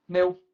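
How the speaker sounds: pneu as bare p, pause, neu; consonant split off. Shown as a demonstration. Teacher shows the strange division, pneu broken after p. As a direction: detach a vowelless p from neu in pneu. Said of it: "se eu fosse separar".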